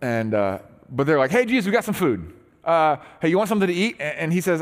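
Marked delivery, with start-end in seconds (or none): 1.3-4.0 eager call. Retold or imitated. Disciples call out with food.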